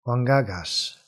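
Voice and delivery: Wangagash, with g sounds standing in for the B; beaked mispronunciation. Acted. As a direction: attempt Womberbash with a hard beak, getting Wangagash. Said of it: "his hard beak, is trying to make that B sound".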